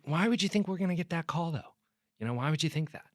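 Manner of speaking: retold calm questioning. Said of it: "you know, it was calm".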